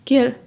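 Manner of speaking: केयर with weight on the c sound; stressed first sound. Shown as a demonstration. Teacher repeats केयर to show stress. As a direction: press the c in केयर. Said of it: "सी की sound पे बहुत ज़्यादा हम ज़ोर डालते हैं".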